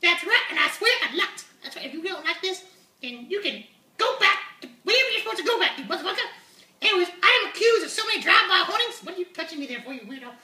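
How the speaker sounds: swaggering high puppet voice; brash puppet unicorn. Acted. Puppet voice Uni continues.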